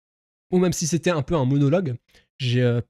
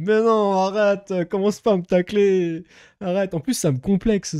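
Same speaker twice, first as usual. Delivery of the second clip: mock plaintive protest; 3 semitones higher than usual. Streamer answering viewers who tease his posture, mock whining. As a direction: protest like you're being picked on.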